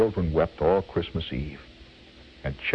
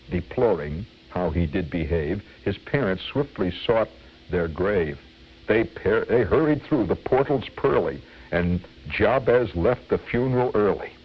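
measured, rhythmic verse recital; comic poem reading. Acted. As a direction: relish each rhyme of a mock cautionary tale.

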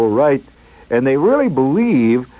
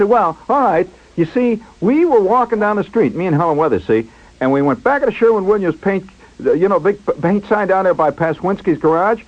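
higher-pitched, eager retelling; excited storyteller; 6 semitones higher than usual. Retold or imitated. Schwartz begins his story about Helen Weathers, mildly excited. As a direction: lightly imitate a friend launching into his tale. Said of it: "he was all excited".

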